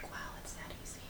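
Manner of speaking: near-silent whispered wow; hushed retold awe. Retelling own reaction to her trick, hushed whisper. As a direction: whisper it, barely any sound. Quoting own awed reply.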